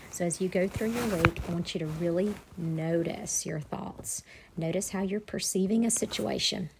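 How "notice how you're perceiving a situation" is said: frog in throat. Real, not acted. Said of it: "Sorry, I got a frog in my throat".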